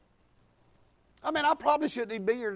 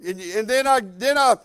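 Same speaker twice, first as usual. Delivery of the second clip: driving, sustained preacher's delivery; preaching; 3 semitones higher, 5 dB louder than usual. Real, not acted. Preacher urging the church to trust God for needs, preaching. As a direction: preach it with insistent force.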